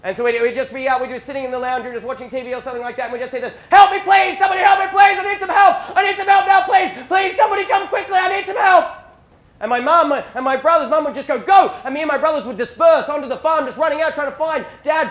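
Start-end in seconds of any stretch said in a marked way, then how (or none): 3.7-8.8 high, loud, frantic cries for help; acted desperate panic; blood-curdling scream. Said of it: "this blood-curdling scream for help". 11.4-11.7 high, loud, sudden command; acted alarmed mum's order; urgent shout. Mum sends brothers running to help.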